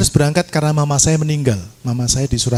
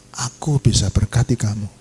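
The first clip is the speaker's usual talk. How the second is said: low, measured divine promise; voice of God; 5 semitones lower than usual. Retold or imitated. God promises blessing to the weeping preacher, lightly voiced low assurance. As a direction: speak lower, as God reassuring. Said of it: "waktu Tuhan berkata".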